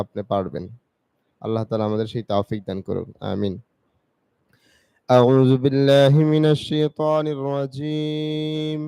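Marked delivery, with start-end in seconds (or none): 5.1-8.8 measured, chanted Arabic recitation; Quran recitation. Acted. Teacher beginning the reading, reverent chant. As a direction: intone the opening formula reverently.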